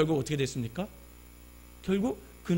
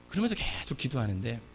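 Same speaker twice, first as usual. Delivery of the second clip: usual speaking voice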